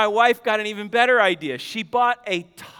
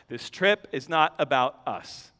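much lower and softer first take; quiet aside; 7 semitones lower, 6 dB quieter than usual. Acted. Preacher reminding the family, soft low voice. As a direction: murmur it as if to yourself. Repeated sermon point.

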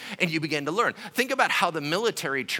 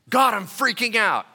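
higher, louder mock panic to God; 8 semitones higher, 8 dB louder than usual. Worried believer complaining to God, mock panic.

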